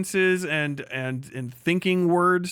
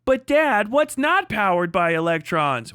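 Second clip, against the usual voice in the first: Rusty voice; 2 semitones higher than usual. Pretend. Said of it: "Well, Rusty".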